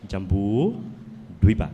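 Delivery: Jambudvipa drawn out slowly syllable by syllable; slow model of Jambudvipa to repeat; slow teaching say. Shown as a demonstration. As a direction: sound out Jambudvipa slowly for the class. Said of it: "Can you say Jambudvipa?".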